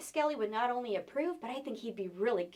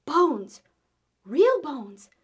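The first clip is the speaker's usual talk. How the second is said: scared cry; 2 semitones higher, 9 dB louder, much slower than usual. Acted. Children scared by bones.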